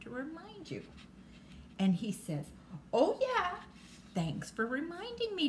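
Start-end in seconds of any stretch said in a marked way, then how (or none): 2.9-5.5 put-on high, bright-eyed storybook child; acted sudden remembering, pitched way up; grateful realization. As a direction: thank Dad in a high child's voice. Child thanks dad in story.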